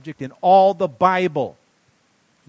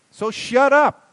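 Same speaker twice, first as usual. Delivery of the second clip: higher and louder, a sharp command; pulpit shout; 11 semitones higher, 9 dB louder, slower than usual. Acted. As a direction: bark it at the whole church. Preacher scolding the congregation.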